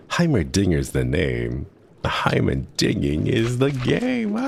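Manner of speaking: hammed-up little inventor Heimerdinger; Heimerdinger impression. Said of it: "my favorite one is a Heimerdinger impression".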